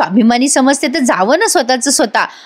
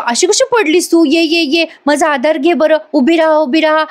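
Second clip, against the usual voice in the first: higher, hammed-up fussing over the fallen wife; mock concern; 5 semitones higher than usual. Husband fusses over his fallen wife, higher mock concern. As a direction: overplay the caring husband. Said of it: "आता अद्वैत म्हणतो".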